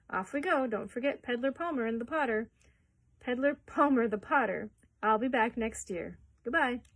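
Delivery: loud cheery farewell; calling out. Acted. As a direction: call out to the crowd.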